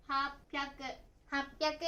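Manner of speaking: 八百 read "hap-pyaku", stopped before the p; happyaku. Shown as a demonstration. Teacher showing the same change in 八百, happyaku with a held stop. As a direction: cut 八 to "hap", then "pyaku". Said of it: "と読みます".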